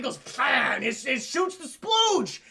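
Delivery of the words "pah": explosive spit noise; imitated spitting. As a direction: spit it out like venom.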